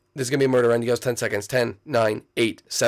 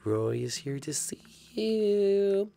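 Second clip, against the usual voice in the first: creepy announcer voice; 4 semitones higher, 5 dB quieter, slower than usual. Acted.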